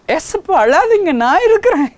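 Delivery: high, loud cry begging Jesus not to weep; pleading loudly to a weeping Jesus; fervent plea to Jesus. Retold or imitated. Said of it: "என்று சொல்லி அவர் கைகளை ஒப்பு கொடுத்துருக்கிறேன்".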